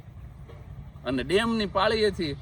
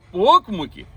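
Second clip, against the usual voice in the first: mock wail; 10 dB louder than usual. Groom's wail retold.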